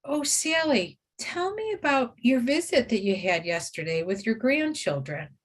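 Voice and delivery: steer her gently toward a happy memory; cheerful, caring prompt to a client; pleasant, friendly question. Shown as a demonstration. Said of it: "Focus on pleasant events".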